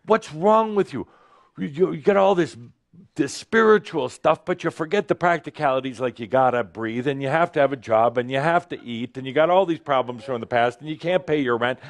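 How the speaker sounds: a hint of a shrill inner critic; scolding human self. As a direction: lecture yourself about rent and jobs. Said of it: "the human screaming out".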